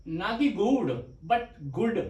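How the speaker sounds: गुड first with a long drawn ऊ, then गुड with a short quick ऊ; wrong long गुड then right short गुड; short vowel in good. Shown as a demonstration. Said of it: "छोटा ऊ".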